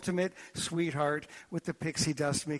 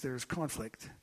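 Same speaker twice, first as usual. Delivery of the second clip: put-on boy's words; 2 semitones lower, 7 dB quieter than usual. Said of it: "He said".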